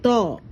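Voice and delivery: തോ with a long, held o; drawn-out vowel. Shown as a demonstration. Teacher shows pupils a long sound, stretched o in തോ. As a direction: lengthen the o in തോ. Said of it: "നീട്ടി പറയണ".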